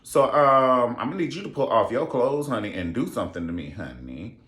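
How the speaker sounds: playing the lusty bride, camp and bold; mock seductive high voice; sassy retold Duchess. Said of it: "And she was like".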